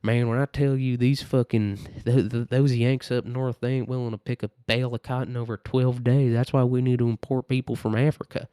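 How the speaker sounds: lightly put-on Southern accent; a hint of a mock Southern planter's accent. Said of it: "I don't know, Southern accent".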